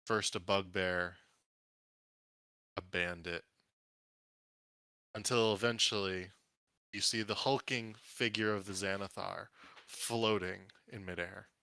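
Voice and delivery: measured scene-setting with dramatic pauses; unhurried storyteller build-up; game master narration. Acted. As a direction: reveal each new threat one by one.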